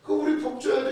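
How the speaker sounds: imitating smug people bargaining with God, lightly voiced; smug entitled plea. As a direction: play a cocky sinner demanding a reward from God. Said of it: "이렇게 말하는 거예요".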